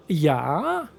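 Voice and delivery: rising, stretched yeah; mock the yeah with a rising drawl; mocking drawn-out yeah. Shown as a demonstration. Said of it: "I had to make fun of myself".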